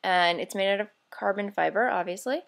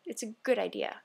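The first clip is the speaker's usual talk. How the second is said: vampire mindset. Retold or imitated. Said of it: "in the vampire type of mindset".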